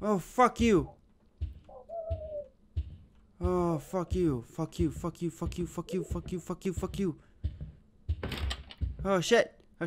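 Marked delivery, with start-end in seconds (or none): 3.4-7.1 swearing tirade. Real, not acted. Repeated cursing at jump scare.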